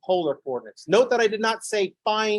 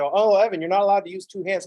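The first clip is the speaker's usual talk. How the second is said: put-on child correcting; 3 semitones higher, 4 dB louder than usual. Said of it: "She's like".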